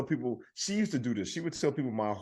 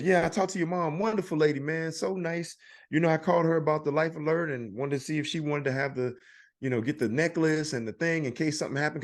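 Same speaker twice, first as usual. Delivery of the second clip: friendly salesman; 4 semitones higher than usual. Retold or imitated. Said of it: "he goes".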